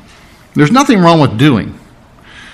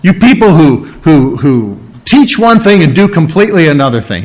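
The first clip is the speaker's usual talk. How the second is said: acted denunciation of hypocrites; mild mock condemnation; sharp rebuke. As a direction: rebuke them, rising in force. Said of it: "He didn't respond with a sharp rebuke".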